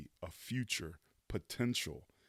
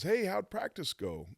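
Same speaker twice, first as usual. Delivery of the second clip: voiced a good deal higher, a light mom imitation; mom's voice; 11 semitones higher than usual. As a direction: mimic mom casually asking how it went. Mom greets him after practice.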